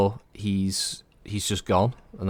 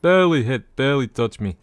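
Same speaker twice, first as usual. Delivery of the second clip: imitating mech pilot; 6 semitones higher, 6 dB louder than usual. Echoing mech pilot game voice.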